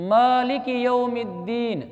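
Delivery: मालिक यौमिद्दीन slowly with मा stretched; lengthened meem. Shown as a demonstration. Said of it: "मीम को भी थोड़ा खींचेंगे". (मालिक यौमिद्दीन, मीम को खींच कर)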